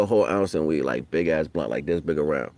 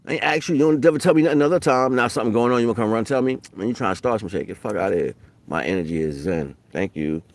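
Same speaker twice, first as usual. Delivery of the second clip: mock angry rant; 4 semitones higher, faster than usual. Scolding someone who dumps drama on him, hammed-up anger. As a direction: act out telling off a gossiper.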